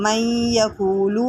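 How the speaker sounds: من یقول with the noon merged into ya and nasalised; idgham with ghunna. Shown as a demonstration. Teacher showing students idgham, slow. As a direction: blend من into یقول with a nasal hum. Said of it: "ادغام مع غنہ".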